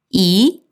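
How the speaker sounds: Mandarin rising tone on 이; second tone. Shown as a demonstration. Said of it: "요렇게 이성으로 변조합니다".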